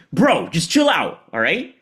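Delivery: calm a friend down, casual and high; chill Shiva. Acted. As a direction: Shiva telling Vishnu to relax. Shiva stopping Vishnu casually.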